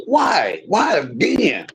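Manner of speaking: tearful, slow why again; real hurt breaking through; crying to the Lord in frustration. Real, not acted.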